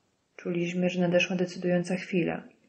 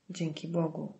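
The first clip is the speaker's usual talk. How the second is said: usual speaking voice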